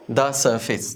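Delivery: the surface as "da suh-fis"; "da", silent R. Shown as a demonstration. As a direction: drop the R in the surface, the as "da". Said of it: "the surface नहीं".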